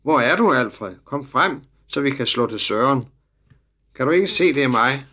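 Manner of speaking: put-on a boy shouting for his friend among the soldiers; shouting as loud as he can. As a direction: yell it so Alfred hears over the crowd. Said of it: "skreg så højt han kunne".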